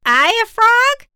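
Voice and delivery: high cackly witch voice. Acted. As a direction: play the witch, high and loud. Witch guessing ingredients.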